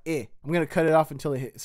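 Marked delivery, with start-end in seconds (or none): 0.1-0.3 syllable demo. Shown as a demonstration. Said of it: "the first syllable is like".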